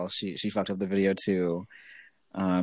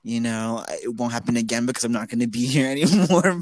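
customer service voice; 3 semitones higher than usual. Retold or imitated. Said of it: "in my customer service voice".

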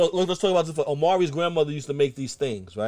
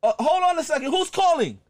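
very high, loud grandma voice; hammed-up grandmother on the phone; shrieky imitation of a friend's grandma; 7 dB louder than usual. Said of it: "she'd answer the phone".

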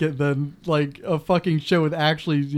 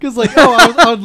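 excited; 7 semitones higher, 9 dB louder, faster than usual. Real, not acted. Excited outburst, pitch jumps up.

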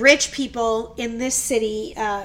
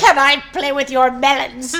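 laughing mock Rasputin; 5 dB louder than usual. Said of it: "voicing Rasputin laughing".

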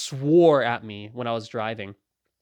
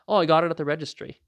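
serious, unruffled. Acted. Driver telling where the license came from, unruffled. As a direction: answer it like small talk. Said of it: "as if it's a serious question".

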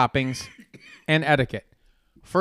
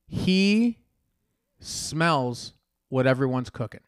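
Rock catchphrase; much slower than usual. Retold or imitated. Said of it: "That's part of his speech".

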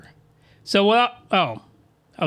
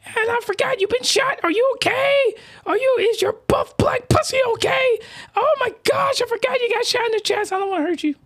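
Lil White Ape voice. Acted. Reader doing the Lil White Ape character in a much higher squeaky voice. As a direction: squeal it way up high like a giddy cartoon girl. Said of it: "suddenly Lil White Ape is freaking out".

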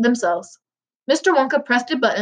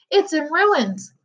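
slow, high-pitched lament; narrated wail over the damage; dismayed cry; 7 semitones higher, much slower than usual. A narrator's reading. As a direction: draw it out in dismay. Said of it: "cried Mister Poor Bucket".

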